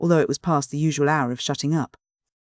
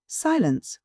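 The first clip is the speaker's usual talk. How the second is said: stern command; 8 semitones higher than usual. A narrator's reading. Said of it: "cried Mister Bumble sternly".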